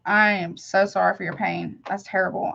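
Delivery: ordinary talk, nothing marked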